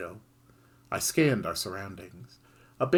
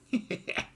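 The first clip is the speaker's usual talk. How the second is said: wicked chuckle; 4 dB quieter than usual. Acted. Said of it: "gave a wicked chuckle".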